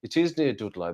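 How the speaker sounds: put-on Black Country "Dudloy"; exaggerated Black Country vowels; broad Black Country accent. Shown as a demonstration. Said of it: "not gonna say it like that".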